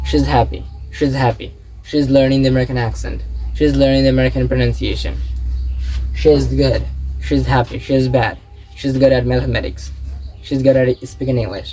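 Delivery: "she's" reduced and linked to the next word; measured model sentences with "she's"; contraction drill. Shown as a demonstration. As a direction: say each "she's" phrase as one joined unit. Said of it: "এইভাবে মূলত আপনার শিখতে হবে".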